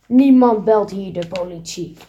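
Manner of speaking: a hint of a low, hoarse thief; lightly voiced menacing thief; hoarse heavy voice. Thief threatening the girls, lightly voiced gruff voice. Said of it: "met een schorre, zware stem".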